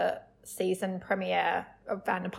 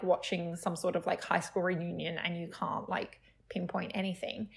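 whispered aside; 2 semitones lower, 7 dB quieter than usual. Real, not acted. Aside mid-story.

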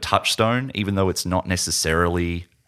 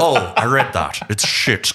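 mock Russian accent; slower than usual. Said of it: "just don't do the accent".

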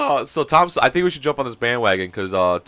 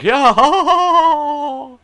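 loud, high, put-on laughing yeah; mock over-eager laugh along; forced agreeable laugh; 13 semitones higher, 6 dB louder, much slower than usual. Fan laughing along with awful talk just to be liked, forced laughter. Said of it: "You're just like".

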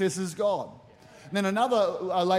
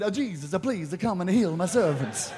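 put-on Italian accent, played for laughs; hammed-up mock Italian accent; 2 semitones lower than usual. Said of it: "He's an Italian".

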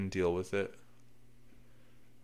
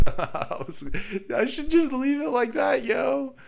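squeaky high chipmunk voice; sped-up helium squeak; 5 dB louder than usual. Pretend. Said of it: "Why do I sound like a chipmunk?".

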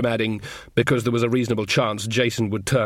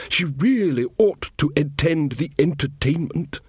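Verence; 4 semitones higher than usual. Acted. King Verence speaking in story.

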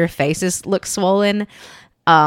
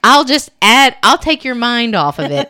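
mocking mom; 6 semitones higher, 7 dB louder than usual. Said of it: "she laughed and was like".

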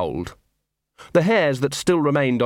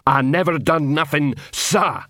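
yelling; 4 semitones higher than usual. Acted. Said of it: "yelled Detritus".

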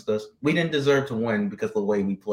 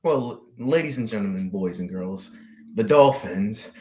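ringmaster. Acted. Mock grand announcement.

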